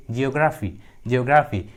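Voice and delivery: जियोग्राफी opening on a J sound; soft G as J. Shown as a demonstration. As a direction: model ज्योग्राफी with its first G as J. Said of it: "जी का उच्चारण ज होता है". (जियोग्राफी में पहले G को "ज" बोलते हुए)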